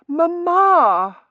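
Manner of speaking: high, loud call to mother; anxious daughter. Acted. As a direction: call out to her in alarm. Daughter fanning fainted mother.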